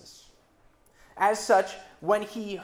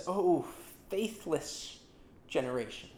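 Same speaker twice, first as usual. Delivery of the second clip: a weary sigh of exasperation, dropping soft at the end; exasperated; 3 semitones lower, 6 dB quieter than usual. Retold or imitated. Jesus rebuking the faithless generation, exasperated and softer. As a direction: let the exasperation sink into the words. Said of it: "in exasperated tones".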